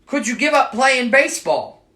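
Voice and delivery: lightly voiced Irish leprechaun shrugging it off; Irish accent. Leprechaun answers Michael in a faint Irish accent. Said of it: "O'Leary sighed".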